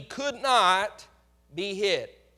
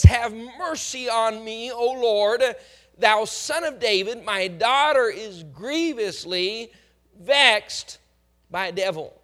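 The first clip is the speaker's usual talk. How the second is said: slow, louder cry for mercy; pleading for mercy; 3 dB louder, slower than usual. Retold or imitated. Mother begs Jesus to heal her daughter, pleading. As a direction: beg the Lord for help, a touch of weeping. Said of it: "She's beseeching the Lord Jesus Christ for help".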